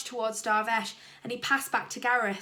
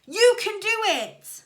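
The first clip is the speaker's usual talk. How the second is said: loud, high, slow cheer; believe in him and shout it; 10 semitones higher, 10 dB louder, slower than usual. A narrator's reading. Dad cheering his son from the crowd. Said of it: "shouted Dennis's dad".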